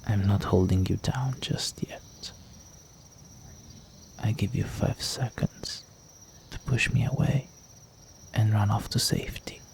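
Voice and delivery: breathy teasing whisper; hushed, predatory whisper close to the ear. Acted. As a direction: whisper a menacing countdown offer. Vampire teasing his prey.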